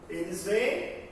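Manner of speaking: slow, deliberate "Eles veem"; slow repeat. Shown as a demonstration. Teacher repeats "Eles veem" slowly so students catch it.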